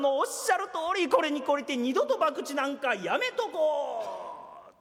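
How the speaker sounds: repeats the boss's これに懲りて with a laugh, twisting it; laughing parody of the warning; mocking echo. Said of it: "おやっさんのおっしゃる通り". (笑いながら親父の口調をからかって繰り返す)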